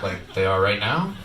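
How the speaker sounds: low, slow mock cop; deadpan cop. Cop needles the red-eyed driver, low deadpan. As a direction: drop it low and slow, bone dry. Cop's dry comeback.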